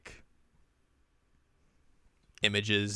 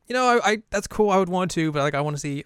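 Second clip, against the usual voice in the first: put-on high, louder eager girl voice; excited anime girl; 9 semitones higher, 6 dB louder than usual. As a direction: gush it out up high. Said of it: "And I was like".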